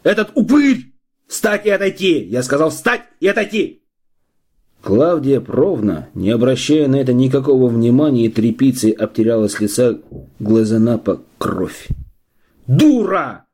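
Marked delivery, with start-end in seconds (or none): 0.0-3.8 high, raging yell at the midwife; wild shouting. A narrator's reading. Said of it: "снова заорал диким голосом". 12.7-13.5 barked insult. A narrator's reading. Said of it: "рявкнул Лыков".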